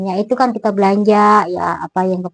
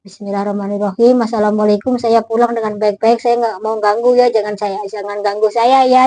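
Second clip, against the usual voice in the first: whispered prayer. Retold or imitated. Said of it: "Saya sampai ngomong begitu tuh".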